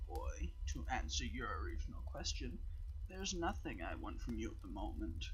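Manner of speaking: slow, measured voice of a cryptic being; deliberate, withholding, letting each word land; mysterious Guardian voice. Acted. The Guardian to the boy, slow and cryptic.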